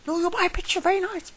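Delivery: very high sing-song sales pitch; imitated hawker. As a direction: coo it like an insistent seller. Hawker insisting on a sale.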